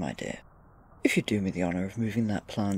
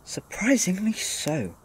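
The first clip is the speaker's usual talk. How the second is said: dry amused whisper; 9 semitones higher, 4 dB louder, slower than usual. Acted. Mateo agreeing with the co-worker, sly whisper. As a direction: breathe it out as a sly secret aside. Amused aside about easy-to-read Micah.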